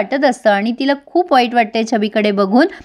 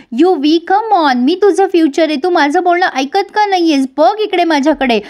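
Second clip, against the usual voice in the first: higher, louder mock call after him; calling out loudly; 5 semitones higher than usual. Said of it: "ही मोठ्या मोठ्याने ओरडते". (मोठ्याने हाक मारत, उंच आवाजात)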